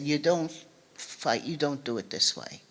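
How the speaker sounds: quiet, steady and low, no heat at all; a mother calmly setting her daughter straight; calm, measured. Retold or imitated. Mother calmly telling her daughter not to fight this way, quiet and low. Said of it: "very calmly said".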